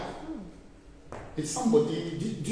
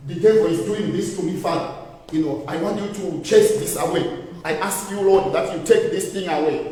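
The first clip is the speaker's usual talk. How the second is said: weak whining prayer; 5 semitones lower than usual. Shown as a demonstration. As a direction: beg like you have already given up. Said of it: "If you pray like that".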